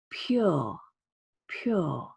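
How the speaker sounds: "pure" said with a clear y glide, pyoor; hidden y sound. Shown as a demonstration. Teacher showing the y sound in pure. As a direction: slide a y between the p and the u of "pure". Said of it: "we say a y sound".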